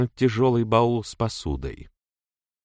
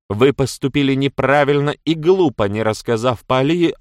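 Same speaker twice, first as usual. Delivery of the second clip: scolding; 6 semitones higher, 7 dB louder than usual. A narrator's reading. Китти отчитывает Мэдж.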